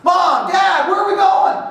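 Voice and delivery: put-on high child's whiny question; kid asking. Kids in the car asking parents, high childlike whine. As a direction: sing it up like a curious kid. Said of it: "First things out of their mouth".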